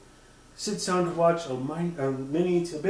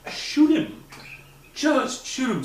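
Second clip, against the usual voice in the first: exasperated plea; 9 semitones higher, 3 dB louder, slower than usual. Real, not acted. Annoyed at the character.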